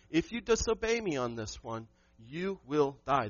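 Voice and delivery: slow, weighty, each word set down; slow warning. Acted. Pastor voicing God's warning to the man, slow and grave. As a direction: drag it out like a final warning.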